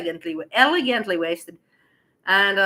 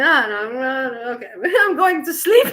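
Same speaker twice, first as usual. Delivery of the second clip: laughing refusal; 4 semitones higher, 6 dB louder than usual. Retold or imitated. Laughing refusal to drunk guy.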